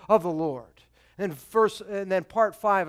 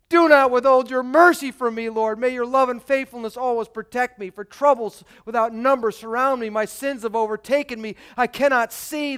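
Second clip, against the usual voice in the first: louder, pleading prayer; raised voice of desperate prayer; crying out to God; 3 semitones higher, 3 dB louder than usual. Acted. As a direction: plead aloud for mercy. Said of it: "he cries out".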